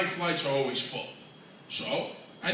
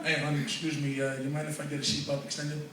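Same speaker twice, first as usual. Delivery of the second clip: hushed, softer request; discreet ask; 4 semitones lower, 6 dB quieter than usual. Retold or imitated. Fat passenger asking the attendant quietly for an extender. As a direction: keep it low so no one hears.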